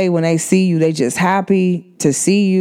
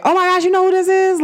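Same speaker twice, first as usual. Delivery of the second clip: excited introduction; 12 semitones higher, faster than usual. Retold or imitated.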